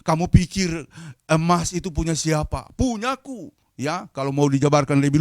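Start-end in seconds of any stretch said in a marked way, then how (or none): 0.1-3.5 stern rebuke, jumping high on the answer; preacher voicing God's displeasure; angry God. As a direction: challenge them as the indignant owner. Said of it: "Tetapi Tuhan marah".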